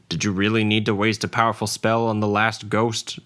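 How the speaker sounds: a touch of pointed reproach; passive-aggressive. Acted. Paladin chides the sorceress over a wasted spell, mildly passive-aggressive. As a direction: needle her about the wasted spell. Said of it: "passive-aggressively reminding her".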